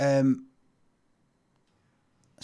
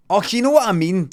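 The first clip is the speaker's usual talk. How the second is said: mocking pal; 6 semitones higher, 8 dB louder than usual. Craig's pals mocking him.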